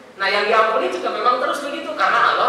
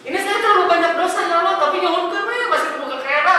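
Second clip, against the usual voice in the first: imitated tearful prayer; 8 semitones higher, faster than usual. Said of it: "tak eta nangis teh".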